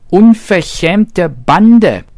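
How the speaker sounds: high, slow, loud indignant shriek. A narrator's reading. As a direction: shriek it out like an outraged little hare. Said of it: "kreischte das Häschen".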